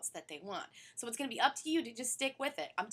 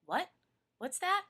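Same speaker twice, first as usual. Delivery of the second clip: leaning in to hear; 10 semitones higher, 6 dB louder than usual. Retold or imitated. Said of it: "They lean in".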